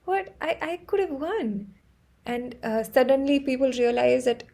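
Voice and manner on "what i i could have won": mock shock. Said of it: "I'm like".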